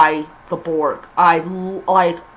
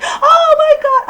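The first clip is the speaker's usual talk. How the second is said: much higher, hammed-up gasp of shock; mock shocked brother; 3 dB louder than usual. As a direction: play the brother's over-the-top disbelief. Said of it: "He's gonna be like".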